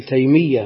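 "تيمية" as taymiyya with a held double ya; doubled ya. Shown as a demonstration. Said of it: "بالتشديد متعين". ("تيمية" بتشديد الياء)

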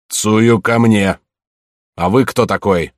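громкий, медленный гневный приказ отца; рявкни на дочь, застав её с мужчиной; гневный окрик. Acted. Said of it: "гневно сказал". (гневный громкий окрик отца)

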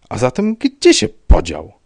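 choked out. A narrator's reading. Rybka asking where the man went, choked out. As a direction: force the question out in mild panic. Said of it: "wykrztusił Rybka, trzęsąc się".

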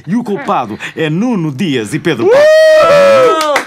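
slow, high dramatic shout; comic shout. Acted. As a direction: bellow the blame like a verdict. Comic mock accusation.

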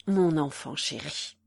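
low, soothing endearment; tender. A narrator's reading. Man calming the weeping woman, tenderly. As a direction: bring the pitch down to comfort her.

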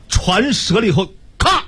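slow plain telling with a spoken crack; Mandarin crack sound. Shown as a demonstration. Demonstrating the ship breaking in Mandarin, plain crack. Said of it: "这是普通话".

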